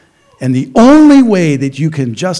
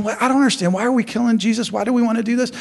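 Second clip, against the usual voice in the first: higher, softer puzzled bystander voice; a bewildered voice in the crowd, a bit softer; confused bystander; 4 semitones higher, 5 dB quieter, much faster than usual. Retold or imitated. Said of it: "They'd be going".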